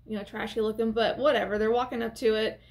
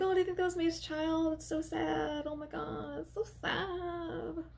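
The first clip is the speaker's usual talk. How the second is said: high, soft mock pity; mock sad gasp; 5 semitones higher, 9 dB quieter than usual. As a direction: coo it like a sad onlooker. Mock sad onlookers retold.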